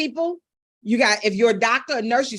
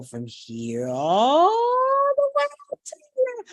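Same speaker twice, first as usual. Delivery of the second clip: rising pitch glide; 12 semitones higher than usual. Shown as a demonstration. Coach demonstrating pitch inflection, swooping upward. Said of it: "gives you that pitch inflection".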